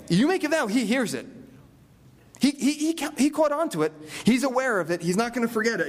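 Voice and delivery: rising preacher fervor. Real, not acted. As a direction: drive home that God never forgets.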